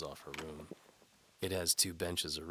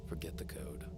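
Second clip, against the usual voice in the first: soft breathy whisper; hushed; 3 dB quieter than usual. A narrator's reading. The knight whispers to the lady mid-kiss. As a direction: murmur it close during the kiss.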